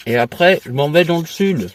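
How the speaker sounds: talking with a mouth full of toothpaste; words muffled by a toothbrush. Real, not acted. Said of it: "on parle pas à la bouche pleine".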